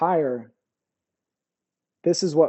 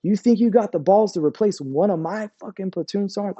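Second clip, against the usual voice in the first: higher-pitched, mildly angry retelling; retold chewing-out; 4 semitones higher than usual. Sergeant major cussing out two soldiers, retold chewing-out. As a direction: imitate an indignant dressing-down without shouting. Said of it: "cussed both of them motherfuckers out".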